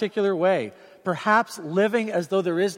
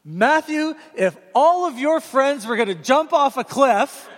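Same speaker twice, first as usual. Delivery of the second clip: much higher, louder parental lecture with a laugh; stock parent line; 8 semitones higher, 6 dB louder than usual. Retold or imitated. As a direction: deliver the classic dad warning, half laughing. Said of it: "I heard myself saying the words".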